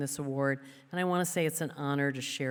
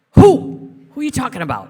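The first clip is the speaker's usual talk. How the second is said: high, loud squeal of mock bafflement; mock confusion; 10 semitones higher, 20 dB louder than usual. Roommate pretending not to know her, high loud squeal. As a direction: play dumb, big and shrill. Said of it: "Chris would go".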